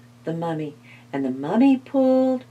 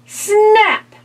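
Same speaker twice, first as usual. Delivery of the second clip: building excitement; 10 semitones higher, 5 dB louder than usual. A narrator's reading. Climax of the big pull.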